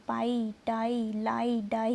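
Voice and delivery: पाई, टाई, लाई, डाई, each ending in "eye"; slow list, holding "eye" in पाई and टाई; long i demo. Shown as a demonstration. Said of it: "आई की sound आएगी". (पाई, टाई, लाई, डाई में आई की ध्वनि)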